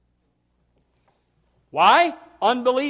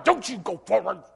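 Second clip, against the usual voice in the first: frightened wife; 3 semitones higher, 5 dB louder than usual. Retold or imitated. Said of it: "she's over here holding on to his arm".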